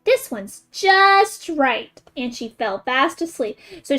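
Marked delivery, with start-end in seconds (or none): 0.0-2.0 put-on contented girl voice. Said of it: "she said".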